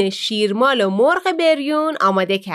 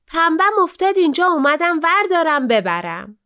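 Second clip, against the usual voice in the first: put-on rude girl; 5 semitones higher than usual. Rude daughter answers the div.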